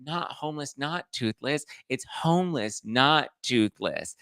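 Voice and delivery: lightly voiced, spelling it out; correcting Chris. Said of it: "Chris is like".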